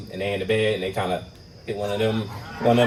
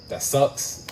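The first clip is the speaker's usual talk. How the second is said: whispered deadpan. Retold or imitated. Deadpan reply to her ride problem.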